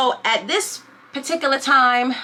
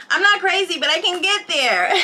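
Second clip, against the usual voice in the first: higher-pitched, amused through laughter; laughing warning; 6 semitones higher than usual. Real, not acted. Laughs while warning about herself.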